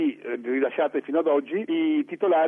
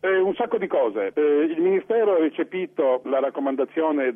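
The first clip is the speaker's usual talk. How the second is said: over the phone. Real, not acted. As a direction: narrow phone line sound. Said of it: "ci colleghiamo telefonicamente con Milano".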